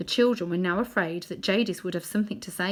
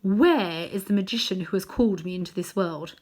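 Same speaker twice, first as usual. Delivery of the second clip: commanding queen. Acted. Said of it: "something in her voice that made the whole room quiver".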